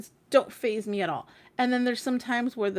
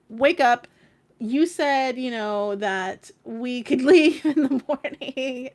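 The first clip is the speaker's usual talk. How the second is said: louder, pushy nudge to wake him, with a laugh; insistent wake-up call; 3 semitones higher, 6 dB louder, slower than usual. Retold or imitated. Waking her partner at dawn to leave the hotel, insistent and loud. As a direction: shake him awake and remind him of his promise.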